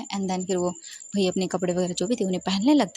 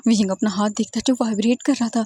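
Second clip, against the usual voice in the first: plain reading voice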